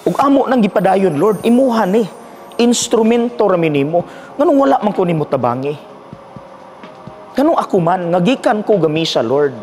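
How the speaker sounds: retold plea to God. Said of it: "ni question sa Diyos".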